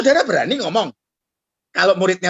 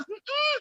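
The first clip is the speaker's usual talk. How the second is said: grumbled hum; 8 dB quieter than usual. Retold or imitated. Father's grumbling reply.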